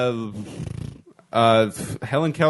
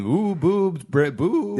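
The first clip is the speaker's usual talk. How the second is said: vampire voice; 4 semitones higher, much slower than usual. Acted. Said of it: "I did a vampire voice".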